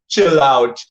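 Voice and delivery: lightly voiced action-hero catchphrase; a hint of Arnold's movie voice; Arnold impression. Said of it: "in his Arnold voice goes".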